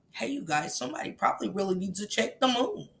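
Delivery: very soft, low put-on voice; mock his odd suggestion in a hushed voice; quiet, low impersonation; mimicking a weird remark. Mimicking someone's weird chat remarks.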